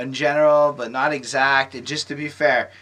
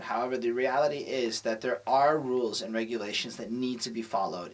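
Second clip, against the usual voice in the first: smooth, scripted support agent politeness; customer service voice; 4 semitones lower, 7 dB quieter than usual. Pretend. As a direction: recite the policy like a call-center rep. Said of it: "you got the customer service down".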